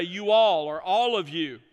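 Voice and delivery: "you all" punched out loud, "all of you" firm; emphatic plural you. Shown as a demonstration. Preacher spelling out the plural you, loud and firm. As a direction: lean hard on "you all". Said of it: "You could say".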